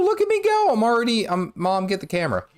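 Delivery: playful bragging. Pretend. Playfully brags to Mom.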